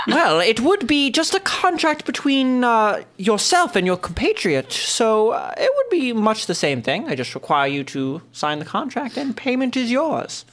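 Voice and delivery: lightly voiced older nobleman; old man voice. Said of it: "old man voice now".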